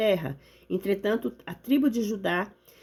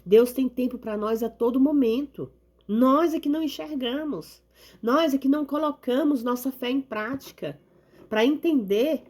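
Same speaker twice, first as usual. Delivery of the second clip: rising sermon fervor; 4 semitones higher than usual. Acted. Preaching peak.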